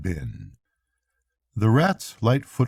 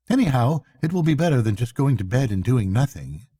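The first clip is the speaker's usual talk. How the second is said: lightly raised, urgent Mole; Mole, restless and determined; 3 semitones higher, faster than usual. Acted. Mole urging Rat to take the boat out and search, determined. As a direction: insist you can't just sit there.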